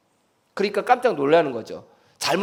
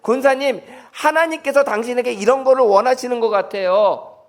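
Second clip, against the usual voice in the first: neighbor's advice; 4 semitones higher than usual. Retold or imitated. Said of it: "옆에 사람이 대신 깨달아서 대신 얘기해 주는 거야".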